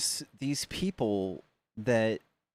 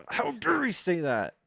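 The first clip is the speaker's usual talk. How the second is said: mock indignation; 8 semitones higher, 3 dB louder than usual.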